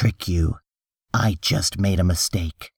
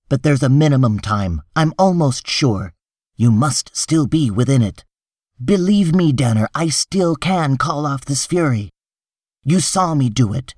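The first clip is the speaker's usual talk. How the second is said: higher-pitched, urgent persuading; insistent reassurance; 5 semitones higher than usual. Acted. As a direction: press them to believe you. Hartz reassures then warns desperate client.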